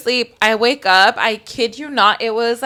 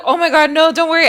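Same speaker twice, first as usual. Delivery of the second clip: reassuring manager; 6 semitones higher, 5 dB louder, faster than usual. Retold or imitated. Voicing the manager's reassuring reply.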